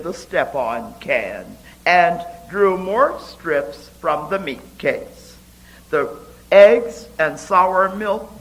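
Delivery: measured, rhythmic reading of her own poem; a poet reading her ballad-like poem to an audience; poetry reading. Acted. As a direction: read it like a ballad, giving each line its beat. Reads her poem aloud.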